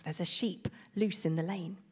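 soft muttered reminder; muttering to himself. Acted. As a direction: whisper it to yourself to remember. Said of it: "repeated the message over and over".

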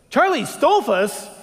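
Tony echoing the name as it dawns on him; stunned recognition. Retold or imitated. Tony realizes who the hitchhiker is, slow disbelief.

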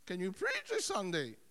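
attempted Irish pastor's voice; playful go at an Irish accent. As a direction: imitate an Irish pastor on the phone. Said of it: "my pastor in his Irish accent".

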